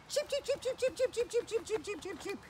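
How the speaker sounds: very high cheeping, fading down; chick peeps. Retold or imitated. Kids' host cheeping like baby chicks for children. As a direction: peep high like tiny chicks.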